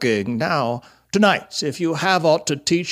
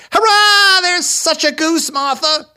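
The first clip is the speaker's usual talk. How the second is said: very high, loud squeal of delight; excited children's cheer; 5 dB louder than usual. A narrator's reading. Young Cratchits telling Martha about the goose, excited cheer. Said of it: "cried the two young Cratchits".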